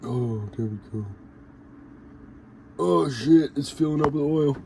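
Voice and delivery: high, loud pained cries; strained in pain. Real, not acted. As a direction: yelp as the needle hits a vein. Injecting oil, hits a vein.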